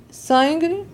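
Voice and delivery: sangue said as Italian "sangre" with a rising end; Italian accent on sangue, ending in "ri". Shown as a demonstration. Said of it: "Eu tô falando em italiano".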